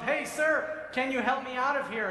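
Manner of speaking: man in pit calling up to a passing rabbi, mock yell. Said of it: "the man yells up".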